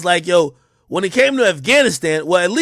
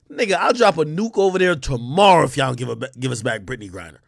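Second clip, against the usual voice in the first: Trump impression; 8 semitones lower, 4 dB quieter than usual. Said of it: "You know what Trump would've said?".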